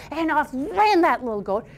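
storyteller stretching key words for drama; lively, theatrical fairy-tale telling; animated story narration. A narrator's reading. Tells a folktale.

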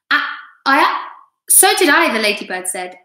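expressive read-aloud with swooping character lines; lively children's storytelling; animated story reading. A narrator's reading. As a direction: read to children, lifting the dialogue and dropping on the tags. Reads story aloud to class.

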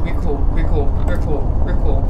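nervous. Real, not acted. Nervous high loud reassurance.

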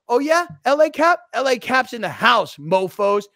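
high, loud pro wrestler taunt; yelling like a pro wrestler. Retold or imitated. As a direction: bellow it at him like a wrestler hyping the crowd. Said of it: "I'm yelling this at him".

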